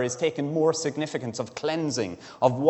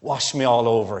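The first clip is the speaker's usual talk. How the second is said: louder, eager burst of "Wash me all over"; enthusiastic; 5 dB louder than usual. Retold or imitated. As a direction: blurt it out with eager devotion. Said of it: "with enthusiasm and affection for Jesus".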